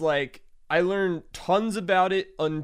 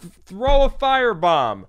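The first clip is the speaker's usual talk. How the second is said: rallying shout; 7 semitones higher, 6 dB louder than usual. Pretend. Mock call to revolt.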